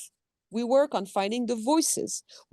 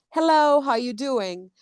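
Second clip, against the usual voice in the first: sample line; 4 semitones higher, slower than usual. Shown as a demonstration. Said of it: "the character saying".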